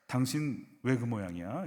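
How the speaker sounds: slow, mildly cynical question; slightly cynical. Shown as a demonstration. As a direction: ask slowly with a touch of cynicism. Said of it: "약간 시니컬하게".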